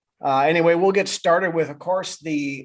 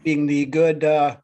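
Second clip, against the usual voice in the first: bad Irish accent. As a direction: put on a corny Irish accent for St Patrick's Day. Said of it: "uh, bad Irish accent".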